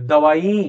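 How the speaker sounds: दवाई with the weight on the final ई; दवाई, end syllable stressed; stress on the last syllable. Shown as a demonstration. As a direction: lean into the long ई at the end of दवाई. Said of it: "वो बोलने में जोर पड़ता है".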